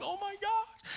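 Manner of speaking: very high, drawn-out cry of dismay; hammed-up terrified squeal; mock panic. Retold panic at the warning.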